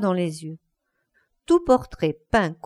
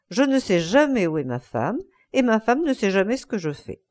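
usual speaking voice

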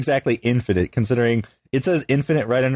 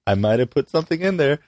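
high sinister voice; 9 semitones higher than usual. Pretend. Sinister candy giver, rising pitch.

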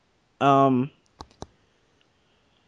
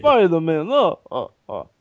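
goofy Russian villain voice; Russian accent; 3 semitones higher than usual. Pretend. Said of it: "That's my Russian accent".

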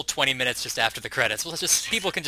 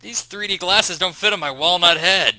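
talking doll voice; 2 semitones higher, 4 dB louder than usual. Pretend. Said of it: "Imagine you have a talking, a Pee-wee doll".

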